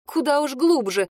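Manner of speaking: flustered outburst; exclaiming. Acted. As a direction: blurt it out, embarrassed. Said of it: "воскликнула я".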